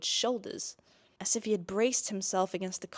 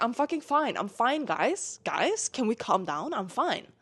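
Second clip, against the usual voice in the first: exasperated protest; 4 semitones higher than usual. Acted. Acts embarrassed patient protesting fuss.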